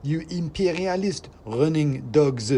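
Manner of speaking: high, loud, slow squeaky tirade; a tiny agitator sneering; ranting mouse. Acted. Sock mouse keeps ranting.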